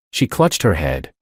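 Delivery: ordinary delivery, nothing marked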